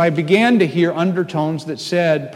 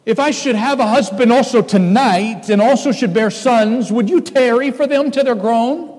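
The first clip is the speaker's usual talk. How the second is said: put-on higher, grieving old widow's plea; pleading Naomi; 8 semitones higher, 3 dB louder than usual. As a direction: plead with her daughters-in-law. Reading Naomi's plea aloud.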